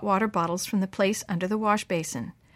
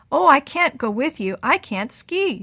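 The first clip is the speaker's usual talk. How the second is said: protesting; 5 semitones higher, 4 dB louder than usual. A narrator's reading. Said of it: "Jessica protested".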